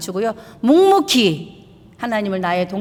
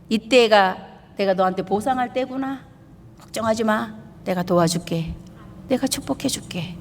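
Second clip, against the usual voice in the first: softer, tender promise; gentle reassurance; 5 dB quieter than usual. Pretend. God promising help to a worried believer, softly reassuring. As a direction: hush the worried child.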